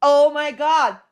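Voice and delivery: hammed-up shock, high, loud and drawn out; mock an overacting host's astonishment; Leslie Bibb. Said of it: "So she's, like, over emoting".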